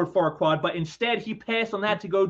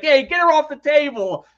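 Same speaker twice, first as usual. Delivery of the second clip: raised, higher-pitched mock yell; acted protest; 7 semitones higher, 6 dB louder than usual. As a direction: call out an indignant order, playing a cartoon character. Acted quote of protesting film character.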